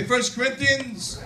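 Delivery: drawn out for them to repeat; slow call-out. Shown as a demonstration. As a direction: say it slowly for the class. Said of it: "say it with me".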